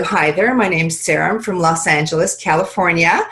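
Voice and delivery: standard Californian American introduction; demonstrated general American, easy and conversational; American accent. Shown as a demonstration. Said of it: "That's my American one".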